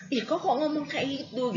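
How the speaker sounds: high, shocked "kok" falling away; a scandalised listener; offended gasp. Retold or imitated. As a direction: react like someone offended by a rude word. Offended listener reacting to "mati.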